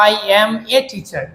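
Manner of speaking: "a" said as full "ay", each word apart; word-by-word article. Shown as a demonstration. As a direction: say "a" like the letter A in "I am a teacher". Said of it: "আমরা normally কি বলি". ("a" কে আলাদা করে "এ" উচ্চারণ)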